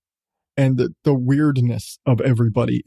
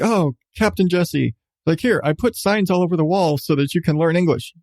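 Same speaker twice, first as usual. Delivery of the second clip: mock Leet voice; 3 semitones higher than usual. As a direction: play the idiot helpfully explaining. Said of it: "because Leet's kind of an idiot".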